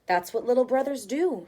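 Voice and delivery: motherly tone. Acted. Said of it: "in a very motherly tone".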